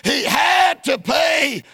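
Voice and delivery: steady, insistent pulpit cadence; preaching. Real, not acted. Preacher on the mockers' half truth, preaching. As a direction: preach it in rhythmic phrases.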